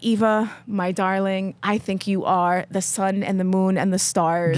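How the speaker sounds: slow, tender mock-mother; doting mom quote. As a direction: lightly voice a gushing mother. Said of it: "She would be like".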